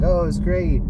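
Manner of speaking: imitating a cheery customer; chipper. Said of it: "she was all chipper".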